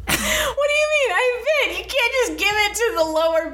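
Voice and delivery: indignant shout. Pretend. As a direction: yell it like you've been cheated. Protesting losing the auction.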